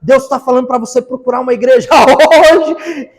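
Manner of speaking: loud, mock-heroic preacher; fired-up evangelist. New convert suddenly preaching to the backslider, fired-up and loud. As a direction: proclaim it boldly, building to a loud, stretched finish. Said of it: "eu virei um evangelista".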